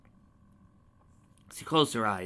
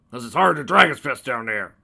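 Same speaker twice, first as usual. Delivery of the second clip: choked laugh; 2 semitones higher, 11 dB louder than usual. Acted. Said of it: "choked Kerpoof".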